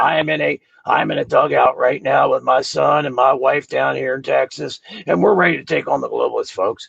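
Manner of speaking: a hint of a ranting radio host; Alex Jones. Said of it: "I sound like Alex Jones right now".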